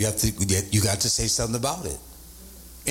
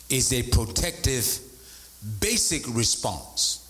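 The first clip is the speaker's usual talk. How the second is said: slow dictation; slower than usual. Shown as a demonstration. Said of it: "Let me say it again".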